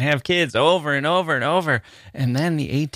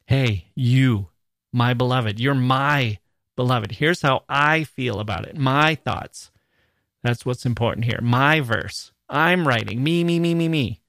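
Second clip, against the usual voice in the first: self-important poet. Acted. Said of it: "ruin poems like this by not being humble".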